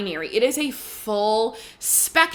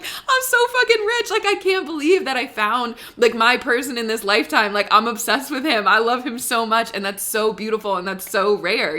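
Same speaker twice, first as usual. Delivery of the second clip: emotional gushing. Real, not acted. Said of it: "I'm getting emotional thinking about it".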